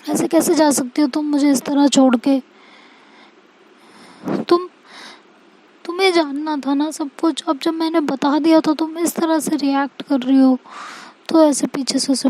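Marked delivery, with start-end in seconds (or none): 0.0-10.6 pleading. Acted. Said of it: "उसे रोकने की कोशिश करती है".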